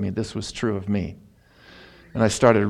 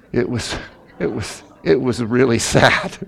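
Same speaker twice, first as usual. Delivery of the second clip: laughing; 3 dB louder than usual. Real, not acted. Laughing while telling of teasing.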